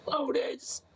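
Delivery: spooky inhaled call, breath drawn in; talking while inhaling. Acted. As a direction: call her name on an in-breath. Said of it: "I tried doing, like, the inhale talk".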